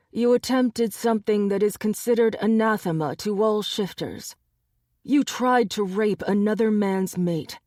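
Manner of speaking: lightly voiced dangerous alpha; menacing alpha. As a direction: loom over him like a hunter. Gabe threatens the captured wolf.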